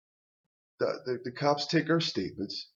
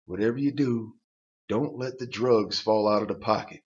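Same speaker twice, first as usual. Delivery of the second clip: mock woman warning. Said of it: "the woman actually said these words".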